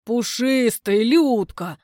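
loud breathless babble; a clumsy suitor gushing at his girlfriend, breathless; babbling eagerly. Acted. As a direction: gush it out, choking on words. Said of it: "лепечет Толя, захлёбываясь".

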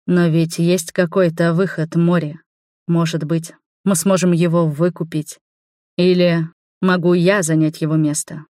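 tender, gently pleading question; soft and gentle. Acted. Keitashi gently pleads with Mori, soft and tender. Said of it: "мягко, ласково спросил".

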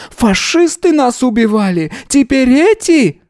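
put-on high, indignant old woman; outraged rant. A narrator's reading. Yana comparing police to fascists, high outraged voice. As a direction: rail against the police.

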